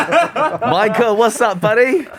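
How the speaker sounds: high, laughing mock greeting; playful high teasing. Teasing Michelle about being Michael, playful high voice. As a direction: tease with a high-pitched hello.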